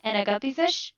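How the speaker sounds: cheeks squished, muffled words. Shown as a demonstration. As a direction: talk with cheeks pressed together. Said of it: "And say".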